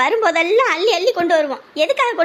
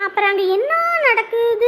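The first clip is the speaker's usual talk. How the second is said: crying; 5 semitones higher than usual. Acted. Wedding called off, distressed.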